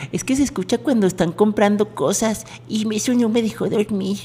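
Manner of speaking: a hint of an old man whining. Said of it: "dijiste como viejito".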